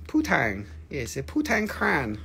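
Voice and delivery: badly faked French pronunciation; mock-French accent on the vowels. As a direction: ham up a poor French accent. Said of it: "my French accent is very bad".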